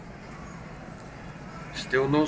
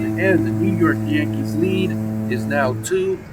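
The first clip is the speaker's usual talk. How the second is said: rising, loud, drawn-out home run call; 4 semitones higher, 5 dB louder, slower than usual. Acted. Announcer calling a Yankees home run, excited and loud. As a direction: sell the homer like a radio announcer.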